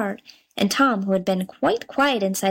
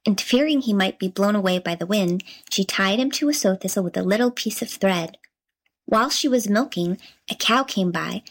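usual speaking voice

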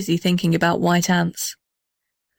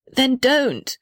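high, desperate plea; pleading; 6 semitones higher, much slower than usual. Acted. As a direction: beg the tree urgently. House begs tree.

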